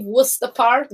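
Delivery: Worcester said as "wooster"; British local Worcester; local pronunciation. Shown as a demonstration. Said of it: "they say Worc".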